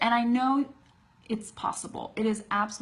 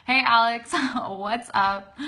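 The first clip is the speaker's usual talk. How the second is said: cheery greeting; 4 semitones higher, 7 dB louder than usual. Real, not acted. Greeting a friend who is watching.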